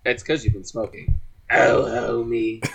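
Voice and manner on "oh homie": slow, drawn-out cartoon wife; stretched doting croon in a put-on voice; Marge Simpson. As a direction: call a husband in a cartoon-wife voice. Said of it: "I'll show you my Marge Simpson impression".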